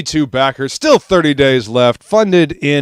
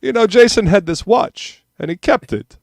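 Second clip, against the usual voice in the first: mock Australian movie quote; 8 semitones higher than usual. Quoting a movie line.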